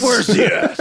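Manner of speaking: loud, high zombie wail; loud zombie cry. Acted. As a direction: shout it like a hungry zombie.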